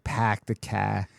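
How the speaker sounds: "car" said as "cah", no R; dropped R. Shown as a demonstration. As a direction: open out "car" into a Boston ah. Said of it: "where R becomes H".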